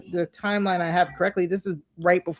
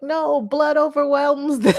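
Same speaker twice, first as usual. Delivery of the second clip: high, drawn-out mock yell; higher-pitched protest, only half yelled; retold yell; 7 semitones higher, 3 dB louder than usual. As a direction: cry it out slowly at the TV. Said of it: "I yelled at the T V".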